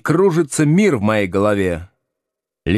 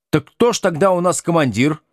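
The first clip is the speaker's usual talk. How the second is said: naive; 7 semitones higher than usual. A narrator's reading. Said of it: "наивно спрашивает Люська".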